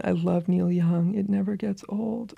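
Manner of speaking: slow, fading into a whisper; hushed quote. Retold or imitated. Quoting the friend's letter back to them, slow and hushed. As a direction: savour the line, dropping to a whisper. Savours the letter's line again.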